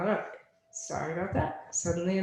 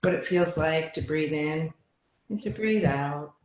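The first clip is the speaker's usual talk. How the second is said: measured meditation teacher voice with long pauses; guided meditation; 4 dB louder than usual. Real, not acted. Teacher settling students into breath awareness, guided meditation. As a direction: guide them gently into the breath.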